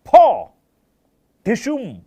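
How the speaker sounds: sudden loud, high फॉ then ढिशुम; punch sound effect. Shown as a demonstration. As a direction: shout it like a film punch. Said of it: "क्या word देते हैं?". (फ़िल्मी घूंसे की ज़ोरदार आवाज़)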